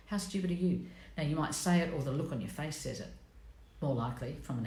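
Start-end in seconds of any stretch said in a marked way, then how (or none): 0.1-0.9 a hushed, scornful jab; whispered scorn. Retold or imitated. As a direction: whisper it with contempt. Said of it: "And then the owl goes".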